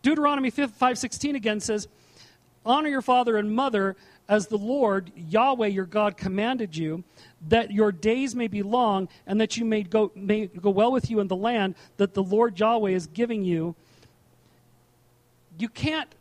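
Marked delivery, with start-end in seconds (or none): 2.6-13.8 louder, measured Bible reading; scripture reading. Acted. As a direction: read the verse out to the congregation with weight. Reads scripture aloud.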